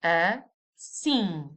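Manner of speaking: Assim with a nasal final vowel, no closed lips. Shown as a demonstration. Teacher demonstrating a nasal Assim. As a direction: say Assim through the nose, ending open. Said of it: "Again, very nasal".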